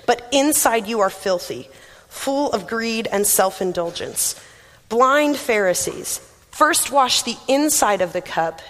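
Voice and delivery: measured, solemn Bible reading; scripture reading. Acted. Preacher reading Jesus to the Pharisees, solemn.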